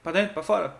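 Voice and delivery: mock chase a dog off the porch; shooing the dog. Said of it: "expulsando o pobre do cachorro".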